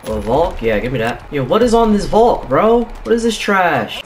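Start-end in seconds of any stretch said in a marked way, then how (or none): 1.3-4.0 loud, high disbelief; outraged complaint. Real, not acted. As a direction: protest loudly about the useless gear. Outraged reaction to the gun.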